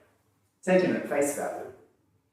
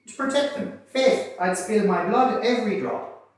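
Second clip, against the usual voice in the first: much higher and louder mock lament; hammed-up repentant Paddy; 6 semitones higher, 4 dB louder than usual. Paddy pouring out mock repentance to Darby, high loud lament. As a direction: overplay a contrite convict wailing his regrets. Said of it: "Paddy confirms this".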